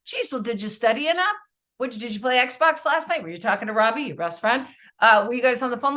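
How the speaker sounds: fast, pressing string of worried questions; a hint of a panicky parent grilling her son; mock anxious interrogation, rushed. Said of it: "because of my own anxiety".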